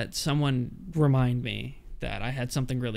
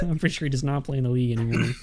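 laughing; faster than usual. Real, not acted. Laughing while talking.

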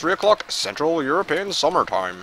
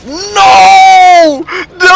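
very high, long screamed no; anguished scream; 14 dB louder than usual. Real, not acted. Gamer robbed of the winning kill, anguished scream.

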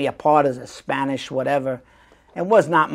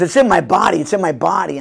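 louder, insistent take on the brother; emphatic brother; 4 dB louder than usual. Retold or imitated. Brother repeating his method, louder and insistent. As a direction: press it home with force. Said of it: "so he goes".

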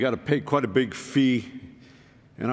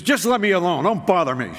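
upset tearful plea; 5 semitones higher, 4 dB louder than usual. Retold or imitated. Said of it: "And she started to cry".

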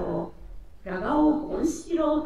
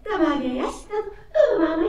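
laughing and crying; 6 semitones higher, 7 dB louder, much faster than usual. Acted. Amazed laughing through tears.

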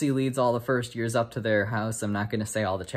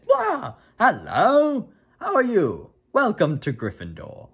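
much higher, louder, gushing ghost greeting; jolly ghost; 11 semitones higher, 7 dB louder, slower than usual. Acted. Ghost pops up to greet the new students, high and loud. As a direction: burst in cheerfully to startle them.

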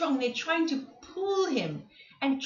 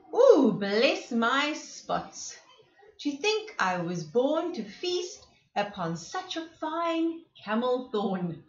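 delighted giraffe. Acted. Giraffe voiced delighted at food.

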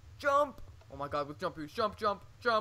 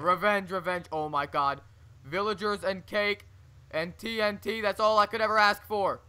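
gleeful crazed villain rant; loud manic glee; wild unhinged ranting; 3 semitones higher, 5 dB louder than usual. Acted.

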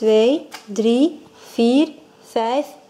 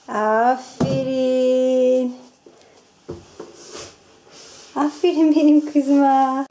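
warm praise; slower than usual. Real, not acted. Praising her little daughter.

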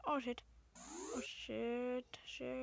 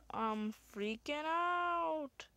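slow, higher, drawn-out panic; freaking out; 5 semitones higher, much slower than usual. Real, not acted. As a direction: stretch the words out in mock panic. Tense match result.

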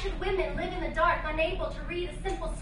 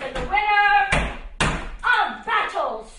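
slow declaiming; 2 semitones higher, 6 dB louder, much slower than usual. Acted.

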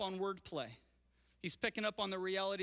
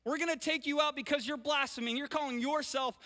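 mild accusing Pharisees; 3 semitones higher than usual. Retold or imitated. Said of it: "The Pharisees are up in his face saying".

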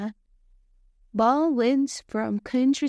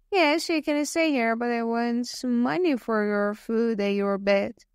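a hint of a sly old innkeeper asking for money; greedy old man. Jealous old man answers Bob.

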